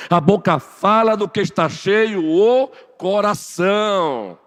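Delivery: loud, high-pitched sermon push; fiery preaching. Real, not acted. Preacher urging the congregation, loud and rising. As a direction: drive the point home from the pulpit.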